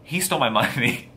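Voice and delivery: mock whine breaking into a laugh; not-serious complaint. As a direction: complain jokingly and giggle before the last word. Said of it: "I didn't say it like that".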